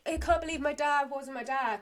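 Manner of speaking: lightly put-on Irish accent; imitated Irish accent. Landlord moaning about his dad, imitated Irish accent. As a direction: mimic the landlord with an Irish lilt. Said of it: "'cause he's Irish".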